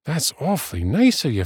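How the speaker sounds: quick, high, grateful friend; impressed, in a high quick voice. A narrator's reading. Friend offered the dwarf's helm, impressed.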